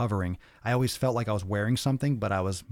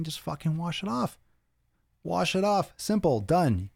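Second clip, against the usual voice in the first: exasperated outburst; 8 semitones higher than usual. Real, not acted. Exasperated rant at listeners.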